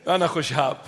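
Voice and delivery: أنا خشاب in a typical Iraqi Arabic accent; لهجة عراقية. Shown as a demonstration. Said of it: "I said it in the typical Iraqi accent".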